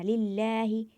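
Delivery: लिल्लाही chanted, holding the ला for one alif's length; Quranic recitation, stretched. Shown as a demonstration. Teacher reciting लिल्लाही to students, ला stretched. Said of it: "ज़्यादा नहीं खींचना".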